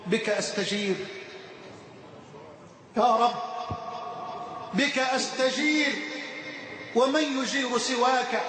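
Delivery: steady devotional recitation of verse; recited prayer poem. Acted. Preacher reciting a poem of repentance to the congregation, devotional. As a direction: recite the supplication as a humble plea.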